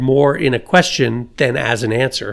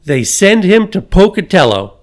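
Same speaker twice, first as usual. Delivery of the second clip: mild mock holler; 4 semitones higher than usual. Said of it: "he hollered".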